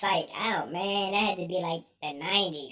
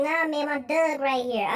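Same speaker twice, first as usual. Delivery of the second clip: higher imitated Baltimore voice, "dog" as "Doug"; Baltimore accent; 6 semitones higher than usual. Friend pointing out his dog, Baltimore accent. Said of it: "How the hell your whole accent changed?".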